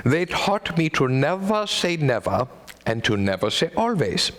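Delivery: a light Austrian doctor voice; Austrian accent. Retold or imitated. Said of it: "fun to say in accent".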